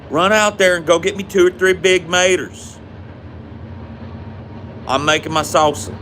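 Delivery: a hint of mom sending her kid for tomatoes; imitating mom. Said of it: "she'd say".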